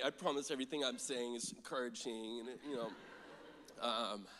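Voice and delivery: talking through sobbing tears; snotty crying. Real, not acted. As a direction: voice breaking, crying while speaking. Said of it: "I'm, like, ugly crying through the whole thing".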